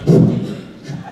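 very high, loud rapid squeals; squealing pig. Acted. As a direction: squeal it over and over like fleeing piglets. Pigs squealing as they flee.

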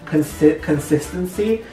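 tipsy, slightly slurred speech; slurring words. Real, not acted. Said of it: "I feel like I'm slurring my words".

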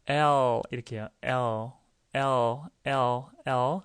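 L with tongue stretched firmly forward; "L" said with tongue tip pressed behind upper teeth; clear English L. Shown as a demonstration. Teacher shows students the tongue position, clear stretched L. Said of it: "혀를 쭉 피셔야 됩니다".

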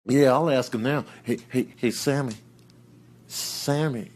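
low, soft wheedling; hushed pleading. Acted. Animal begs Sammy for a taste, hushed and wheedling. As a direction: beg under your breath, low and coaxing.

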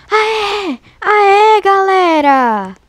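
high, drawn-out happy shout to the chat; stretched, elated call of victory; relieved cheer. Real, not acted. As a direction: celebrate a narrow escape. Cheering after escaping danger.

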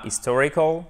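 HISTORICAL begun on the vowel, H silent; wrong French-style "historical" without its H; dropped H. Shown as a demonstration. Teacher showing the mistake to avoid, no H on HISTORICAL. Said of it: "ce H à bien faire en anglais. C'est pas".

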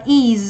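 "is" said as one short ending sound; "is" pronounced as the second way to say the ending; demonstrated ending. Shown as a demonstration. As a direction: model "is" as a suffix pronunciation. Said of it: "chúng ta phát âm là".

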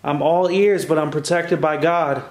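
loud, firm challenge to the spirits; defiant challenge. Real, not acted. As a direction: confront the witch head on. Challenging the witch aloud.

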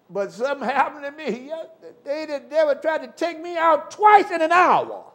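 preacher building up; preaching force. Real, not acted. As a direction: lift it and push the volume. Preaching climax.

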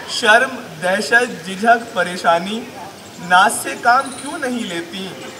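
quoted verse, recited word by word with pauses; measured Urdu poetry delivery; mushaira recitation. Acted. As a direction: recite like a poet at a gathering. Recites another poet's verse.

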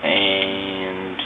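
recorded through a phone mic, scratchy and garbled; speaking through a phone app mic, a little staticky; cheap phone mic. Real, not acted. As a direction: talk into a cheap phone microphone. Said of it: "Kinda scratchy".

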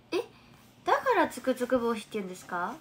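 loud, amazed question; suddenly struck by the answer; a delighted gasp of discovery; surprised realization. Real, not acted. Learning the name's origin.

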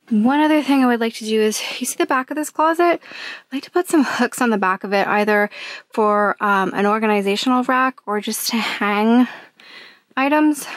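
breathless, panting between words; out of breath. Real, not acted. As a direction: talk while winded from work. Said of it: "I'm, like, out of breath".

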